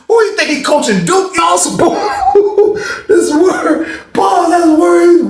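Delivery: high, loud laughing through the words; cracking up. Real, not acted. Storyteller breaking up over his own story, laughing. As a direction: laugh out loud as you tell it.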